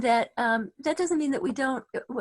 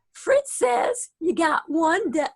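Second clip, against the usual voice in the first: put-on Southern accent; 5 semitones higher, 7 dB louder, slower than usual. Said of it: "she has a deep Southern accent".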